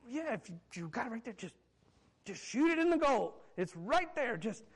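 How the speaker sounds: impatient, halting coaching from the stands; exasperated sideline urging. Acted. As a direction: urge the kid on from the sideline.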